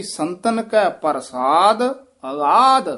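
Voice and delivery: slow, with a short halt after ਪ੍ਰਸਾਦ; ਅਗਾਧ stretched, falling to a rest. Shown as a demonstration. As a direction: lean on ਪ੍ਰਸਾਦ, then finish on ਅਗਾਧ. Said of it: "ਪ੍ਰਸਾਦ ਤੇ ਠਮਕ".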